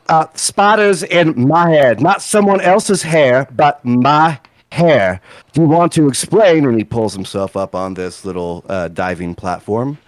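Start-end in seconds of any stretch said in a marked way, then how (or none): 0.1-6.6 slow, raised-pitch indignant scolding; angry scolding. Acted. Purple-haired man scolds about spiders in his hair, slow and indignant. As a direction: draw out each aggrieved word. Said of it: "she goes back and scolds you".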